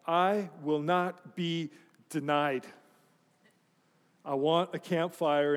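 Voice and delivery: slow, measured vow with mock gravity; mock-defiant resolve. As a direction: declare it word by word, stubbornly. Retelling his stubborn campfire resolve.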